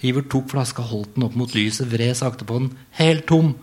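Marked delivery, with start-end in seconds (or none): 3.0-3.5 higher, louder cry of dismay. Acted. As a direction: realize it's all gone. Iver realizes bottle empty.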